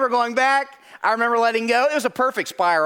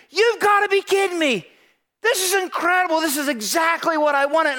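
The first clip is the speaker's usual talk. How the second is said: delighted mom; 5 semitones higher than usual. Retold or imitated. Mom thrilled opening gift.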